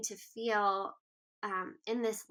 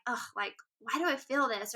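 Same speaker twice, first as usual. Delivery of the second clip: a touch of self-reproach after an exasperated "ugh"; understated self-critical inner voice; mildly condemning voice. Acted. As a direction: lightly scold yourself for your own feeling. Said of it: "have a condemning voice of like".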